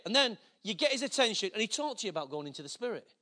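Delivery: ordinary delivery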